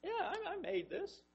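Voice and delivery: just state it, no boast at all; quiet, casual statement of fact; matter-of-factly. Shown as a demonstration. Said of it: "God could say it just sort of matter-of-factly".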